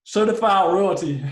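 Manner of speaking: slow, measured reading of a name; slow and careful. Real, not acted. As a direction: pronounce each word slowly and carefully. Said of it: "I had to say it slowly".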